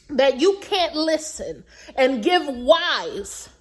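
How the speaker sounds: slow down and give "wise" weight; stress on wise. Shown as a demonstration. Advising viewers, stressing the word wise. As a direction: lean hard on "wise", slow and deliberate. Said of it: "emphasis on the word wise".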